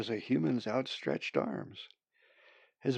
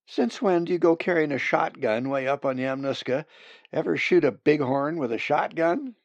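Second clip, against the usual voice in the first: raised, challenging questions; incredulous; 4 semitones higher, 5 dB louder than usual. Acted. Hunter questions friend about carrying shotgun, incredulous. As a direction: scoff at your partner's idea.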